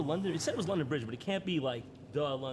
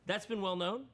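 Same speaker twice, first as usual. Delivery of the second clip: reading in disbelief; 5 semitones higher than usual. Real, not acted. Doubting the claim again.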